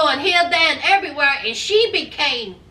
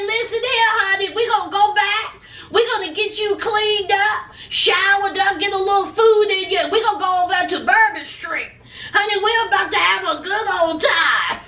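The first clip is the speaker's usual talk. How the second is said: higher-pitched, hyped-up imitation of an eager boyfriend; eager party guy; 4 semitones higher than usual. Boyfriend pitching Bourbon Street to tired girlfriend, mock eager. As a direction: sell the night out, playfully excited.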